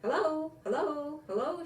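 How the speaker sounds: high, loud chipmunk calling out hello; cheerful shout. A narrator's reading. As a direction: call out bright and high like a little chipmunk. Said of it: "shouted Jitterbug".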